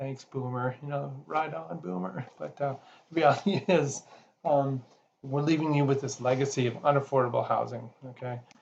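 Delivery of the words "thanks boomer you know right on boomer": chuckling, mocking, much quieter voice. A speaker addresses the audience, chuckling through a mock quote.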